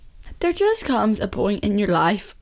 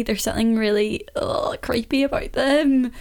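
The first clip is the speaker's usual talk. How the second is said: disgusted whisper; 4 semitones higher than usual. Real, not acted. Disgust at long painted toenails.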